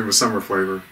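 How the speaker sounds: speaking between sips; words near a drink can; talking with can at lips. Real, not acted. Seen 0: Man talks with the can pressed near his lips; no clear swallowing.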